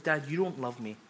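mock sulky teenager; imitating a whiny high schooler, lightly; teen son sulking at dad, lightly whiny. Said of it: "A typical high schooler".

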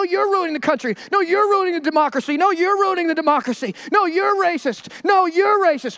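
tit-for-tat accusations, lightly acted; mock bickering. Two sides trading accusations.

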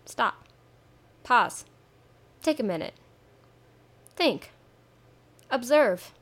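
slow, spaced-out single-word commands; calm, paced instructions to listeners; slow guided commands. Shown as a demonstration. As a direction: leave long pauses between each word. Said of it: "I just forced you to do it".

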